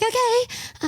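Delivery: high, tiny nervous okay; timid okay. Retold or imitated. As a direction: squeak it out hesitantly. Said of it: "I was like".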